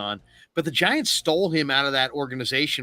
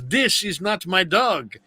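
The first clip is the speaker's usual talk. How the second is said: retold movie line; 6 semitones higher, slower than usual. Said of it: "And he goes".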